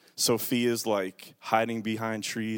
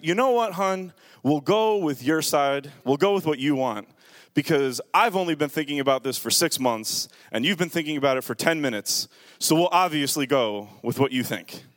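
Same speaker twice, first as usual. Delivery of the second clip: sarcastic. Retold or imitated.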